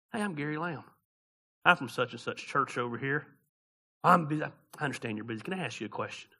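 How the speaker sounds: preacher mocking his old sales pitch to a stranger; soul-winner's pitch. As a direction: lightly play the eager caller at a stranger's door. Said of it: "Here's how it worked".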